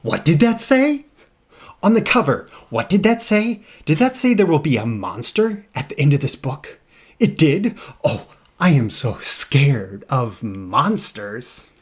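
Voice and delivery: squeaky panicky muppet begging; bad Grover voice. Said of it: "my bad Grover voice".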